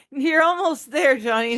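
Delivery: teasing, suggestive coax; suggestive tease. Pretend. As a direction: egg him on with a knowing wink. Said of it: "say it like that".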